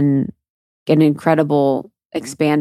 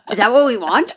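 laughing; 6 semitones higher than usual. Retold or imitated. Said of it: "I was like".

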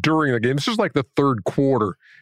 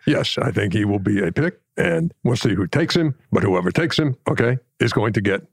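imitation of an emphatic draft-room coach; lightly voiced coaching analyst; Hubie Brown. Shown as a demonstration. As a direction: deliver a verdict in measured chunks with tagged okays. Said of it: "Hubie used to be just tremendous".

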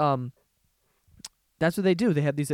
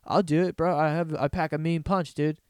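eager dupe. Retold or imitated. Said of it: "They're all just like".

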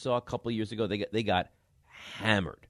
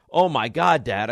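mock yell of a ten-year-old; imitating worked-up son; 3 semitones higher, 6 dB louder than usual. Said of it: "He's screaming. He's yelling".

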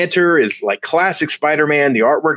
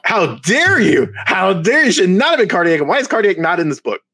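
mock indignation; 4 semitones higher than usual. Fan answering co-host's Cardiac pick with mock outrage. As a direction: pretend to be deeply insulted. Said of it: "I'm getting very upset".

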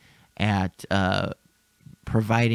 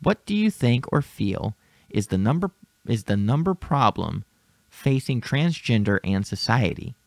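over enunciating. Shown as a demonstration. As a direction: read it one word at a time, deliberately. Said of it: "Let me read this one word at a time".

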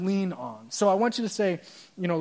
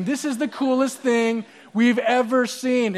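thrilled crowd; 5 semitones higher, 4 dB louder than usual. Acted. Thrilled crowd voiced in story.

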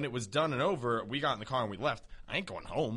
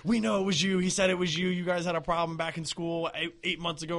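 higher-pitched mock cop accusation; imitated accusing police; 4 semitones higher than usual. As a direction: imitate officers pressing charges over the phone. Police accusing him over phone.

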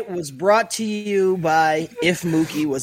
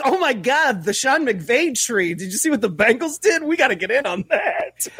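higher, hammed-up gushing about a trend; mock excited owner; 7 semitones higher than usual. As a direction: play a team owner breathlessly chasing the Sean McVay tree. Mock NFL owners copying the Bengals.

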